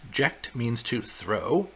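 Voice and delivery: "Ject" stressed, rising finish; slow repeat. Shown as a demonstration. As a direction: repeat it slowly so it sinks in.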